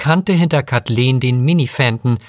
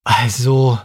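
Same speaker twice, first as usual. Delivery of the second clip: hesitant, drawn-out start; slowly. A narrator's reading. Guest cornered by the waitress's question, speaking slowly. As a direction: begin slowly, weighing your answer. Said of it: "sagte Remy langsam".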